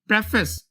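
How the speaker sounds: प्रेफेस with a short "preh" first syllable; प्रेफेस opening on an e vowel; correct pronunciation. Shown as a demonstration. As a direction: say प्रेफेस as "PREF-ess", not "pree". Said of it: "इसको प्रीफेस नहीं पढ़ेंगे".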